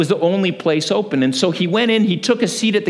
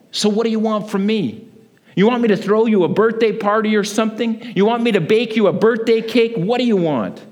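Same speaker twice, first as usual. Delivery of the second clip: higher and mocking, a retold sneer; nasty tone; 5 semitones higher than usual. A so-called friend sneers at the birthday girl, mocking tone. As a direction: needle her with mock scorn. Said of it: "said in a rather nasty ... tone".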